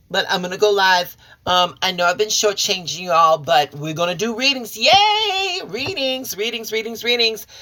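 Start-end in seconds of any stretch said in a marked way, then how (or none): 4.8-7.5 excited cheer. Real, not acted. Cheering readings are back.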